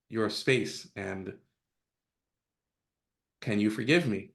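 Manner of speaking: softly and slowly, kneeling down to apologise; sincere quiet apology. Retold or imitated. Dad apologises to his son before the family, soft and sincere. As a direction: make it a humble, hushed apology.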